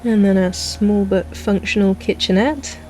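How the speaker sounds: property tour sales pitch; selling the house to a buyer; real estate agent. Acted. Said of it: "I sound like an estate agent".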